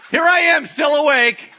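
high, loud rooster holler; comic full-volume rooster announcement; crowing rooster shout. Pretend. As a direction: sound off like an obnoxious rooster. Voices roosters sounding off again.

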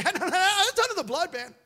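loud, high "shut up" to the enemy; forceful rebuke yelled; rebuking shout. Retold or imitated. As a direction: shout down the accusation. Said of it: "I just say".

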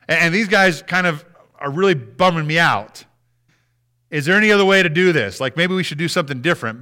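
acted-out complaint to a father; imagined reluctant plea. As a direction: argue haltingly for another way out. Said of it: "He says".

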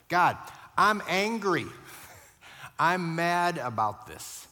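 loud, slow, heated honest prayer; angry prayer. Shown as a demonstration. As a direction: let the anger out to God. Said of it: "you see what I'm saying that way".

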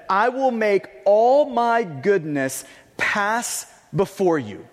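slow, solemn lightly voiced God. God answering Moses, slow and solemn. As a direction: say it slowly, as a grave promise. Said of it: "God responds and says this".

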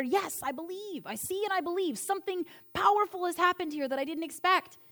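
a hushed, wondering yes; awed realization. Acted. Disciple's sudden realization, quoted.

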